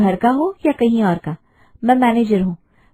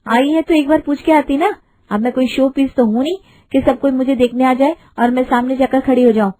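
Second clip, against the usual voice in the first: put-on higher, curt and dismissive young bride; rude daughter-in-law; 4 semitones higher than usual. New bride refusing to meet her mother-in-law's guests, haughty and curt.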